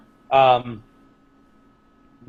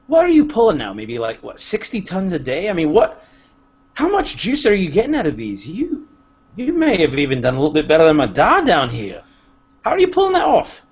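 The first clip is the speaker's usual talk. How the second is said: higher, halting, flustered questions; stammering dwarf; 4 semitones higher than usual. Acted. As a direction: stammer out nervous flattery. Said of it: "I would kinda stammer".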